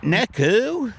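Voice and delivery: high, sharp Nick who; incredulous. Acted. Stunned voice questioning the singer's name, high. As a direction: demand it in disbelief.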